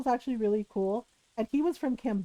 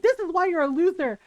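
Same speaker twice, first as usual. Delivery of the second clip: sneering bully; 6 semitones higher, 4 dB louder than usual. Retold or imitated. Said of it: "She's like".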